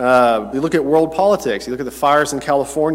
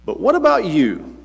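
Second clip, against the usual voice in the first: voicing Jesus, raised pitch, gently probing; Jesus asking; 7 semitones higher than usual. Jesus asking his disciples, a lightly voiced probing question. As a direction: pitch it higher as Jesus asks his followers.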